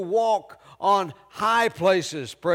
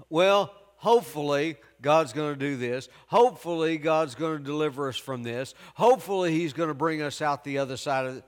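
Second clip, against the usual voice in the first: lower, fast, wishy-washy hoping; doubtful hoping; 5 semitones lower, faster than usual. Retold or imitated. Preacher mimics unsure believer, lower and hurried. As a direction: rattle it off like a weak believer. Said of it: "He didn't say".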